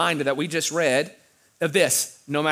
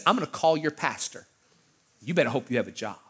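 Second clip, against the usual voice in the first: quiet threat; 4 semitones lower, 7 dB quieter than usual. Retold or imitated. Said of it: "he said".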